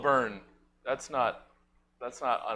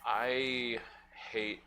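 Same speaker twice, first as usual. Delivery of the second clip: Garfield voice; 3 semitones lower, 9 dB quieter, much slower than usual. Acted. Garfield character's grim confession.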